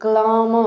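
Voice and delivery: "క్లామ" said as klam-a, the r silent; model pronunciation. Shown as a demonstration. Teacher models the word for students, careful and clear. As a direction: say "క్లామ" cleanly with no r sound. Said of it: "pronunciation మళ్ళీ వినండి".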